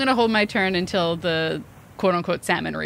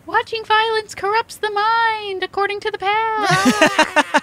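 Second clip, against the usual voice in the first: high, slow prim reciting; prim recited lecture; 12 semitones higher, slower than usual. Acted. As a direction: recite a lesson primly. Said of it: "Cammy yells".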